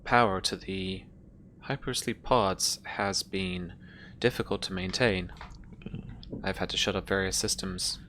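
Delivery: lightly voiced ship computer, measured with long pauses. Ship computer Mother reports on colonists' pods, lightly voiced measured computer. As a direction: deliver it haltingly, like a computer reporting status.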